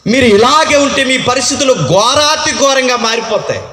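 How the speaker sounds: prophet's shouted warning. Acted. Prophet's warning acted as preaching.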